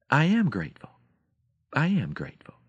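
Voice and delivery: high, meek storybook hen; lightly voiced hen, lifted in pitch; clucking hen. A narrator's reading. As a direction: recite it dutifully as the little hen. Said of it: "She smiled and clucked".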